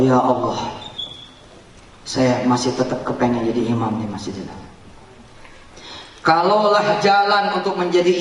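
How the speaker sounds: praying. Retold or imitated. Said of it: "saya berdoa".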